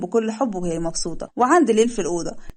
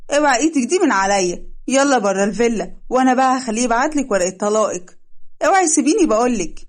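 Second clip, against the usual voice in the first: mild mock shout to let go; struggling protest; 2 semitones higher than usual. Dalida pulls free of the stepmother, half-shouting.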